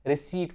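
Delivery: "रिसीट" with long ee, p dropped; silent p. Shown as a demonstration. Teacher answers his own check question, silent p. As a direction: drop the p, saying "रिसीट". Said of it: "क्या पढ़ना है".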